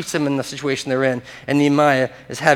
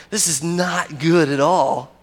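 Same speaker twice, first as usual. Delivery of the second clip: dismayed thought; slower than usual. Retold or imitated. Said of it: "I'm just thinking the whole time".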